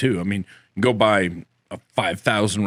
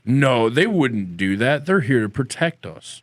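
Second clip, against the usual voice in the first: mock-sincere sarcasm. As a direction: play the trusting believer, barely holding it together. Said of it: "I can't say that without laughing".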